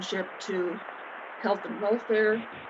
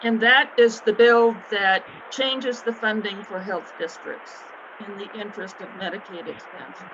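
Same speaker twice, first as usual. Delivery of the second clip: sore throat from a breathing tube; speaking carefully with a sore throat; weak after surgery. Real, not acted. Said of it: "I'm not speaking well. I had surgery yesterday and tubed down my throat".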